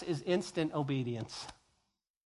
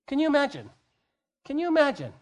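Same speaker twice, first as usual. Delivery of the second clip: higher, louder can you imagine; exclaiming; 8 semitones higher, 4 dB louder, faster than usual. Real, not acted. Preacher asking the congregation, higher and louder. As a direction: throw the question out to the room.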